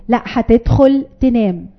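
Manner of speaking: slow, steady "هتدخل تنام" with falling end; the right way, unshaken; calm firm order. Shown as a demonstration. Mother shows parents the calm, steady bedtime order. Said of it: "شايفين حضرتك لما أقول".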